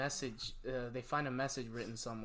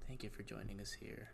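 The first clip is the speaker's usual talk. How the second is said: mock creepypasta voice; 7 dB quieter than usual. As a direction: softly parody a creepypasta narrator signing off. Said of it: "your creepypasta voice".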